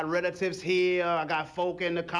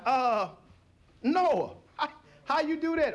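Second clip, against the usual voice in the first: lightly voiced curious onlooker, higher; voiced crowd; 6 semitones higher than usual. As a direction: ask Noah like a nosy bystander. People outside ark questioning Noah.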